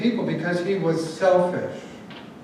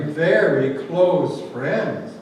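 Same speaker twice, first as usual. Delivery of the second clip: "very close" drawn out slowly, rising on "very"; stress on very close; 3 semitones lower, much slower than usual. Shown as a demonstration. Preacher teasing the congregation, slow stress on "very close". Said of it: "I emphasize the word very close".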